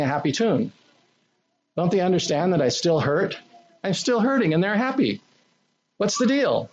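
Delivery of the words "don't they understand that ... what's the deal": high, aggrieved whining complaint; indignant whine. Pretend. Preacher voicing a hurt believer, high indignant whine. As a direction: sulk that they don't get how hurt you are.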